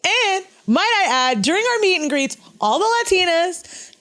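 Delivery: high, emphatic interjection; mock indignation. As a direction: make a grand point, pitched well up. Mock defence, voice pitched up.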